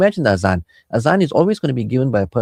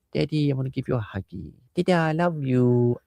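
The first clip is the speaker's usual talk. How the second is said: put-on innocent young child; 2 semitones higher, 4 dB quieter than usual. Small child offering daddy a hug, innocent voice. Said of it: "those masoom children of yours".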